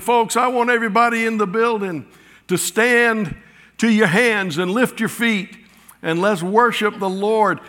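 imitating a high, loud revival preacher; neo-Pentecostal preacher. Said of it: "in that neo-Pentecostal voice".

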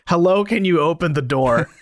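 laughing through a polite request; giggly mock-polite request; laughing quote. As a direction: laugh while quoting her. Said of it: "Vivi just says".

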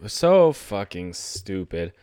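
slow, drawn-out disgust; exasperated. Real, not acted. Fan venting at the refs, slow and disgusted. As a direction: spell out the frustration word by word.

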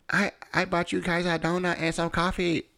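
put-on high-pitched mother-in-law with an Asian accent; imitated Asian accent. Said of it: "that's my best Asian accent".

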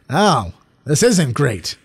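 slow, deflated mock verdict; flat letdown. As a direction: drag it out, disappointed on rewatch. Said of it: "being like".

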